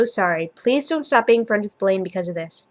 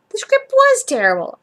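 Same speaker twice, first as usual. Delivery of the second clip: "The script was terrible" said higher and louder, stress on "was"; emphatic insistence; 11 semitones higher, 7 dB louder than usual. A narrator's reading. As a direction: insist hard, pushing "was". Kurt insists, voiced emphatically.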